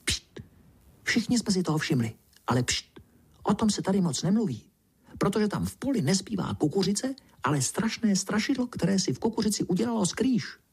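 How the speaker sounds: high, quick, hushed frog chatter; a tiny frog sharing a secret; a frog whispering gossip to the boy; little tree frog voice. A narrator's reading. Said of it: "mrkla na mě a šeptla".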